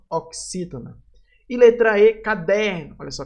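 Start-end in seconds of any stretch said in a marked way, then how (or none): 2.2-3.0 "caderno" with a long, leaning DER; stress on DER. Shown as a demonstration. Teacher showing a paroxítona, stress on DER in "caderno". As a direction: lean on the middle syllable of "caderno". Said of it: "O der aqui vai ser a sílaba mais forte".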